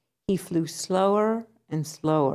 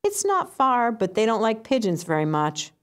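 pitched much higher, then settling; pigeon voice; 5 semitones higher than usual. Acted. Pigeon warns duck about swans, high voiced.

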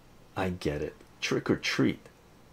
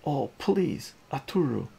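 mother yelling; 8 semitones higher, 7 dB louder than usual. Acted. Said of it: "the mother yells".

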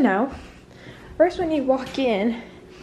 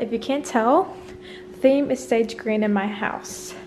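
out of breath. Real, not acted. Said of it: "Oh, I'm out of breath".

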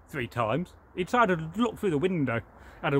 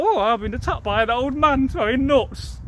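higher, louder alarmed oh; a robber yelping as nuts hit; startled robber; 7 semitones higher, 5 dB louder than usual. Acted. Robber crying out as the squirrel throws nuts, higher and louder.

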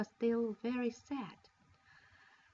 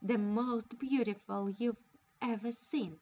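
mocking sister showing off, a little louder; teasing; 4 dB louder than usual. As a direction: taunt her with the finery. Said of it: "Charlotta teased her".

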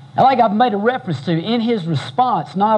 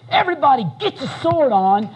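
slightly raised, urgent call to arms; rallying war cry; 5 semitones higher, faster than usual. Retold or imitated. David calls his men to arms, mildly raised rallying cry. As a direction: rouse the men to grab their swords. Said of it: "And what did he say?".

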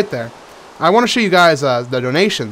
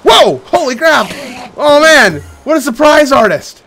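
shrieking in real fright, high; startled yelps turning to laughs; scream into giggles; 13 semitones higher, 11 dB louder, slower than usual. Real, not acted. Enderman jump scare.

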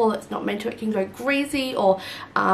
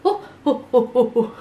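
excited cooing; 4 semitones higher, 3 dB louder than usual. Real, not acted.

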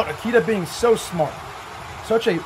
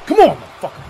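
loud, higher mock challenge; taunting shout; 9 semitones higher, 7 dB louder, faster than usual. Retelling the wrestler shoving his foe, mock taunting yell. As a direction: bark a dare at your rival. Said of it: "He's like".

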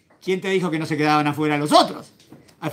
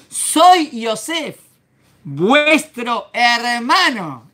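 very slow, higher, weighty declaration; solemn reveal; 4 semitones higher, much slower than usual. Acted. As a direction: let each word land like a vow. (revelación solemne y muy lenta)

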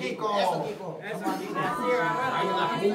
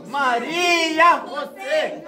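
drawn-out shout; 5 semitones higher, much slower than usual. Real, not acted. Friends chanting a name.

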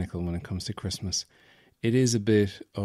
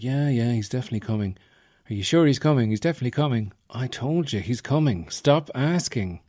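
1 weary parents; 3 semitones higher than usual. Retold or imitated. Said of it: "the parents are like".

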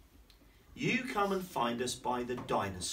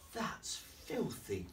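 whispered; 4 semitones higher, 7 dB quieter, much slower than usual. Acted. Baby in painting whispering to sniffing Lulu, slow whisper. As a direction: breathe it slowly like a hidden voice. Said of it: "she was going".

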